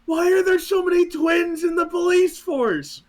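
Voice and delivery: high, loud incredulous question; hammed-up bewildered cop; mock deadpan question. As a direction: ask it in exaggerated disbelief. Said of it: "Tom just looks at him and goes".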